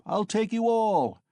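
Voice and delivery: high, loud and slow, drawn out; shouting again. Acted. Mikolka insisting to the laughing crowd, slow loud shout. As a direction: stretch each word into a stubborn yell. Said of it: "Mikolka shouted again".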